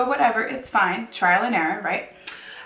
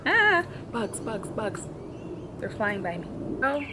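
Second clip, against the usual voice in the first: startled squeal at bugs; yelp, then trail off scared; panicked yelp; 2 semitones higher, 3 dB quieter than usual. Real, not acted.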